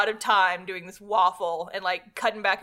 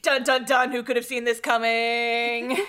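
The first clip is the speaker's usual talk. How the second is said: mock surprise. Mocking a predictable plot twist.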